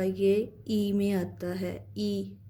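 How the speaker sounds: ई drawn out and falling; ई sound. Shown as a demonstration. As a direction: say ई long and falling. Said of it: "इसका जो sound है ना ज़ेर का". (लंबा गिरता हुआ ई)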